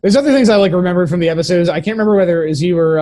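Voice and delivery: loud, fast excited recall. Real, not acted. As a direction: blurt it out eagerly.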